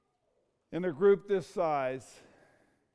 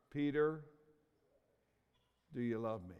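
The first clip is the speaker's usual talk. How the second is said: hushed, much softer and lower, tender question; soft voice of Jesus; 5 semitones lower, 7 dB quieter than usual. Retold or imitated. Jesus gently asks Peter if he loves him, hushed and tender. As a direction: lower the voice to a near hush.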